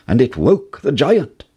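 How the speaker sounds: usual speaking voice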